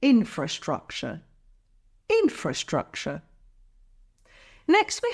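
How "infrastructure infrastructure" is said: "Infrastructure" with its opening syllable stressed; stress on first syllable. Shown as a demonstration. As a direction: model "Infrastructure" clearly, falling away after the stressed first syllable. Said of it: "stress is on the first syllable".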